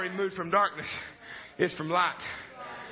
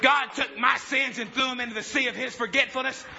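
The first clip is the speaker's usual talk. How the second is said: put-on joyful old father; 3 semitones higher than usual. Father rejoicing in the attic.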